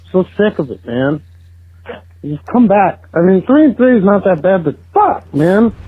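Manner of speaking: fed-up fan venting, voice jumping high; incredulous, frustrated rant; exasperated venting. Real, not acted. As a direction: pitch climbing in frustration. Fan venting after horrible loss.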